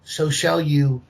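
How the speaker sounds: slow, deliberate threat to a villain; measured, menacing defiance. Acted. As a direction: lay each word down slowly like a vow. Paladin defies villain, slow.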